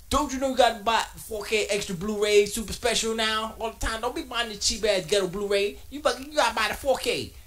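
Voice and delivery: high, loud hammed-up ranting lecture; mock lecture. Telling girlfriend she must buy 4K, mock loud rant. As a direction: playfully berate her like a pompous snob. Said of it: "And I said".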